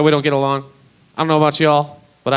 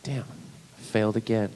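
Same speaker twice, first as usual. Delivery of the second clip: slow, unvoiced self-pity; whispered disappointment; whispered defeat; 3 semitones lower, 9 dB quieter, slower than usual. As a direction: sigh it to yourself, beaten. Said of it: "I was like".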